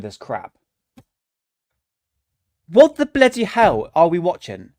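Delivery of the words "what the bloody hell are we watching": louder, exasperated rant; real angry outburst at the footage. Real, not acted. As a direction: let the disgust burst out at the screen. Ranting at bad footage.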